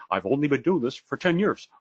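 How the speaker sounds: mock scolding coach accent, climbing high at the end; lightly put-on accent, rising into exasperation; Mike Ferry. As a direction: impersonate a blunt sales trainer. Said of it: "here's my Mike Ferry accent".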